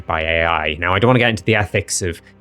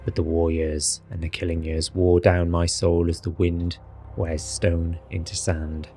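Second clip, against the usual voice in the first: Strahd voice. Acted. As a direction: read it as seriously and dramatically as possible. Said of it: "I'll do it in my Strahd voice".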